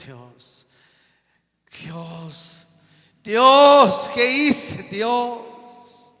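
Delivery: clamando a Dios, de golpe mucho más alto y fuerte; lamento desesperado. Retold or imitated. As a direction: suplica a gritos por los años perdidos. Anciano lamentándose ante Dios. (lamento a gritos)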